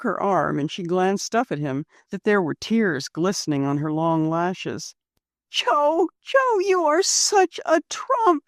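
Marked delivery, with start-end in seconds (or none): 5.5-8.4 huskily. Acted. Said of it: "she added huskily".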